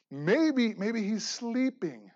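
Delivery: slow sarcastic musing; mocking. Preacher mimicking Elijah's jab, slow and sarcastic. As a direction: drag it out with a smirk. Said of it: "he's kinda poking fun at him".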